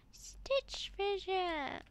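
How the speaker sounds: slow, breathless whisper. Real, not acted. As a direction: whisper it like a secret. Naming the found fidget.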